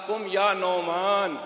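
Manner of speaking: slow, drawn-out words to a sleeper; retold waking call. The Prophet wakes sleeping Huzaifa, slow waking call. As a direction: stretch it out to rouse someone gently. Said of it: "फिर जगाया".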